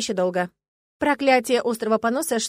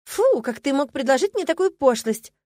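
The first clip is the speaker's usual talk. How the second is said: indignant; 4 semitones higher, 3 dB louder than usual. Acted. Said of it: "возмутилась я".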